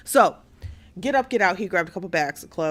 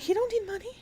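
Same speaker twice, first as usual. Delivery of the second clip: 2 much higher, louder outraged shouting; 3 screech it like you've lost all patience; 1 outraged yell; 10 semitones higher, 5 dB louder than usual. Retold or imitated. 4 Risa yelling at his aunt on the phone, outraged.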